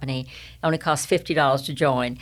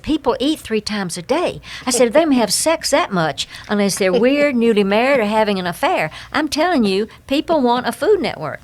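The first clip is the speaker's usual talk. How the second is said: excited pitch; 5 semitones higher than usual. Retold or imitated. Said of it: "And I said".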